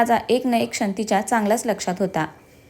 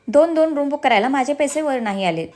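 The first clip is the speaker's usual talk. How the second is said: mocking imitation of husband; 4 semitones higher than usual. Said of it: "तोंड वेंगाडत दक्षची acting केली".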